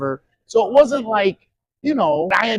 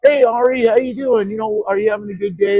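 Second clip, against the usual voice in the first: higher, breezy cool-guy voice, quick at the end; imitating Kevin Bacon; 5 semitones higher, faster than usual. Actor greets the boy on set, breezy and higher. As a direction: play the cool actor checking on a bored kid. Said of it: "So he'd be like".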